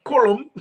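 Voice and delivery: deliberately off Callum, rounded first vowel, like CORLUM; playful mangled Callum; botched attempt. Shown as a demonstration. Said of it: "if I can pronounce that".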